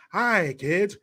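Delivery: school teacher impression; lilting mock teacher greeting; Kamala. School teacher greeting her kids, lilting mock greeting. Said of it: "You have school teacher Kamala".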